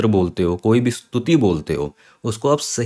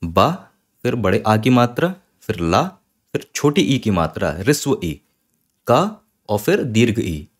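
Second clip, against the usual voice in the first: spelling out letters. Shown as a demonstration. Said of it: "बालिका को हम कैसे लिख सकते हैं वर्ण विच्छेद करके".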